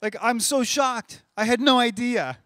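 high, loud mock astonishment; over-the-top fake surprise; shocked. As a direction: ham up total shock. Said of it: "But he's like".

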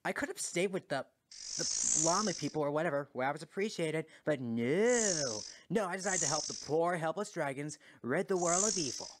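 exaggerated martyr's grumble; aggrieved rant. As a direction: complain as the unappreciated helper.

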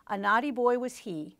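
put-on measured read-aloud of a children's poem. Shown as a demonstration. Teacher reading a poem to the class, measured and lilting. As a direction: read the verse with a lilt.

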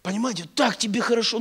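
usual speaking voice

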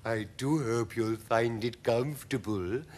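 lightly voiced lady spider. A narrator's reading. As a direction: offer it politely as a spider hostess. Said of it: "Miss Spider said to".

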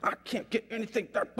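imitated exasperated nurse; retold complaint with a touch of anger; mock-mad nurse venting. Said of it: "the nurse gets mad".

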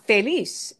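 feliz with the final syllable punched; feliz, weight on its last syllable; stress on LIZ. Shown as a demonstration. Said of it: "we punch the end more".

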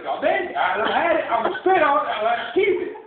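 worked-up retelling of a threat; fed-up outburst. Retold or imitated. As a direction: act out having had enough. Retold quarrel over the food.

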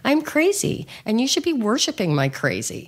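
high, wild, proud crazy woman. Pretend. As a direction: lightly play the wild woman.

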